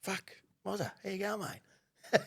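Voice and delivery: high, slowed-down stunned hello; surprised greeting. Retold or imitated. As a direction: greet him in slow amazement. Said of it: "And I went".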